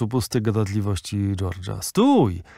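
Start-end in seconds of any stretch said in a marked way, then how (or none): 1.8-2.4 exasperated shout. Acted. Bernard cuts off the valet.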